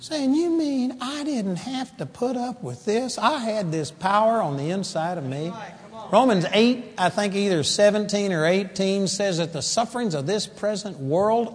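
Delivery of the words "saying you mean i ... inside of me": high-pitched, softer shocked realization; mild astonished protest; shocked disbelief. Acted. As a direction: act out someone stunned by what they've just learned. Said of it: "we're gonna be shocked".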